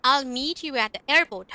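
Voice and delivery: slow, careful example sentences; slow teacher model sentences; slow demo reading. Shown as a demonstration. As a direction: read it out slowly for the class. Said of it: "हम इस तरह से बोलेंगे".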